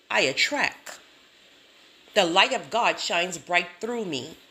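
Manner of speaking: emphatic, self-assured affirmations with punched endings; saying it like you mean it. Shown as a demonstration. Speaker demonstrating mirror affirmations, said with firm conviction. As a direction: declare it from the chest, with conviction. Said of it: "say it like you mean it".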